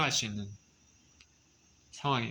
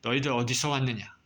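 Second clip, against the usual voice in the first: mildly stern questioning, a touch firmer; stern authority; 3 dB louder than usual. Acted. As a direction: question them like a strict official looking down. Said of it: "엄하게 얘기합니다". (약간 엄한 목소리로)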